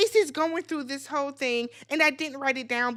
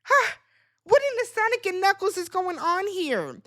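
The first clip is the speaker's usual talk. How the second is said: mock bafflement; 5 semitones higher than usual. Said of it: "I'm like".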